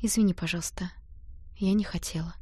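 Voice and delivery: soft, timid apology; babbled apology. Acted. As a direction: mumble it out meekly, scared. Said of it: "пролепетала". (робко и тихо лепеча)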